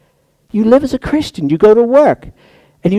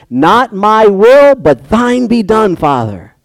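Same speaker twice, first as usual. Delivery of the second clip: slow, solemn surrender; earnest prayer; 3 semitones higher, slower than usual. Retold or imitated. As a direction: pray it slowly and humbly.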